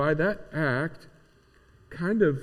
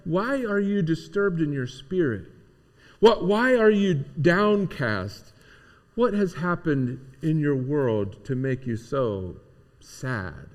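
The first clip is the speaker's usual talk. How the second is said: compassionate question; slower than usual. Acted. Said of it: "his question is more compassionate".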